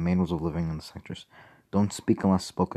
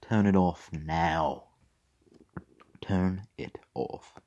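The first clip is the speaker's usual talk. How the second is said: mild growl; 6 dB quieter, much slower than usual. Acted. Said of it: "Fox growled".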